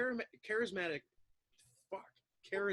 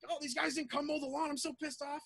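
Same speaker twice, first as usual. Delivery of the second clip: higher, half-hearted fake annoyance; mock rant; 11 semitones higher than usual. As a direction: pretend to fume over trivia. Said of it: "I'll just start talking loud".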